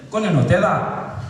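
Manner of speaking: loud, slow Glaswegian burst; thick Glaswegian. Retold or imitated. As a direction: imitate a thick Glasgow accent. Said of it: "they got thick Glaswegian accents".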